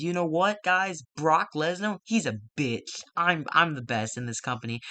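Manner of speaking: loud mock wrestler promo; mock trash talk. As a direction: brag to the crowd like a heel. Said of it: "E C three says".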